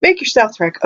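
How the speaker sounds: mock-encouraging, sarcastic GM to the rogue; sarcastic game master. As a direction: pretend it's a great plan, dripping sarcasm. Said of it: "It's like".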